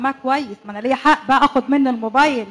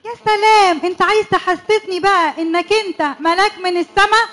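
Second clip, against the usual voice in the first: higher mocking retort; sarcastic; 3 semitones higher than usual. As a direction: scoff at his holy act.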